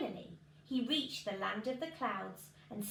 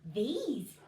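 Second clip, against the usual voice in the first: declaring; 4 dB louder than usual. Acted. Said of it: "declared the funny little man".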